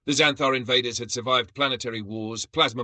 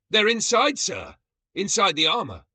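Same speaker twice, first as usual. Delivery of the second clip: much higher, frantic report; panicked shout; 12 semitones higher, 4 dB louder than usual. A narrator's reading. Brug reporting to Gorlak, panicked and high. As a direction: shriek it in horror.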